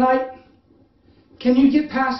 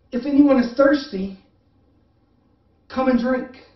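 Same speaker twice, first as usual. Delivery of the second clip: loud call; 3 semitones higher than usual. Retold or imitated. Preacher calling out Jesus' invitation to the thirsty crowd. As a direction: call it out like a summons. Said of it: "Jesus stood and said in a loud voice".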